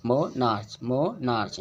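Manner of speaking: मोनार्च split in two, with "मो" held longer; stress on first syllable. Shown as a demonstration. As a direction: linger on the "मो" of मोनार्च, then say "नार्च". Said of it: "ज़्यादा time दे के इसको पढ़े". (मोनार्च के "मो" पर ज़्यादा देर रुककर)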